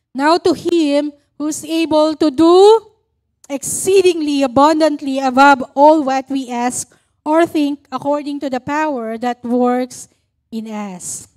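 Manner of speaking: solemn, measured Bible reading, slowing at the end; scripture reading. Acted. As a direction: read the verse like a preacher. Reads Ephesians 3:20 aloud.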